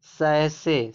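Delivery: सैसे said "sai-se". Shown as a demonstration. Teacher showing students the reading, सैसे with an "s" sound. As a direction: say सैसे with sibilants, no "ch". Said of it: "बड़ा सा का sound निकल रहा है".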